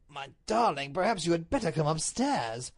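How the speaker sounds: mildly grave, concerned husband; gently serious, in a natural register; a touch of solemn concern; grave Duke. Acted. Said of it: "The Duke's tone was grave".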